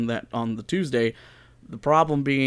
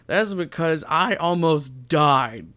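mock drama; 4 semitones higher, 3 dB louder, slower than usual. Host dramatizes being sick.

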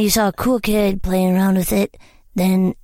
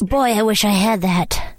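voicing a commenter; slower than usual. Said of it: "what are these comments like".

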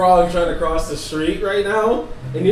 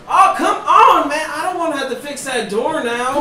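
exasperated whine; 5 semitones higher than usual. Acted. Innkeeper grumbles about fixing the door again. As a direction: groan it like the fix-it guy again. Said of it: "You hear the same guy, like".

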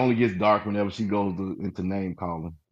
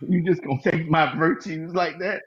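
put-on higher, rising southern belle accent; playful southern belle offense; 8 semitones higher than usual. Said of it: "Southern belle".

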